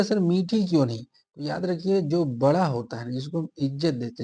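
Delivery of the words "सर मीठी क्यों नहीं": raised voice of a puzzled student; student's question. Retold or imitated. Teacher voicing a student's question, pitched up. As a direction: mimic a student asking the teacher. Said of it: "आप कहिएगा".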